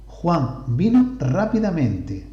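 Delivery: Juan vino rápidamente, slow and deliberate; slow model sentence. Shown as a demonstration. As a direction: read it out slowly for the class. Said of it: "A ver en qué posición está".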